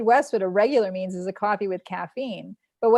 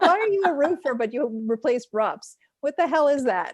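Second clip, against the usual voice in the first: exasperated mock outrage; 5 semitones higher than usual. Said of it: "I was like".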